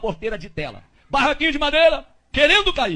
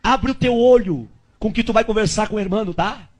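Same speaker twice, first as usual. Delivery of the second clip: slow, lower, intimate voice of the Spirit; Holy Spirit voice; 4 semitones lower, slower than usual. Retold or imitated. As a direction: voice of the Spirit whispering in his ear. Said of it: "o Espírito Santo veio na minha orelha e falou".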